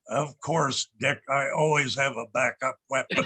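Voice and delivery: lightly imitated gravelly agent. Agent admits backup weapon to his boss, mildly gravelly. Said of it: "a very gravelly voice like this".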